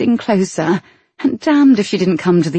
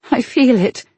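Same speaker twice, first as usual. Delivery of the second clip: heroine voice; 7 semitones higher than usual. A narrator's reading. Heroine's line in romance reading.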